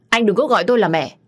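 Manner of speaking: high, loud, fast snap; mother rejecting Phong calling her mum, angry rebuff. Acted.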